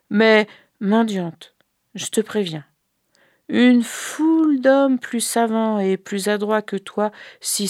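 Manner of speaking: ailing sick man. Acted. The sick brother warning the beggar woman, pained. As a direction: warn the beggar with weary gravity.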